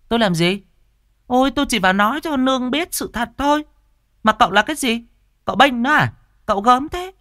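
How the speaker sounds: high, loud, scornful snapping; shrill retort. Acted. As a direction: fire it back at him, offended. Tư Hiền snapping back at Châu.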